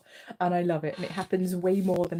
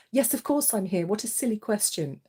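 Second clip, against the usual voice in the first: playful spirit voice; 7 semitones higher, 7 dB louder than usual. Pretend. Voicing the grandparent spirit.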